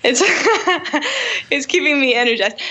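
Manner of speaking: laughing through the words; giggling mid-sentence. Real, not acted. Laughing at herself while eating.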